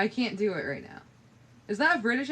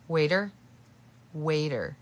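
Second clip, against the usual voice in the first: Waiter with a New Zealand vowel for water; New Zealand accent try; attempted New Zealand accent; 4 semitones lower than usual. Shown as a demonstration. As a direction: say Waiter as a Kiwi would say water. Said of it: "I can't speak in a New Zealand accent".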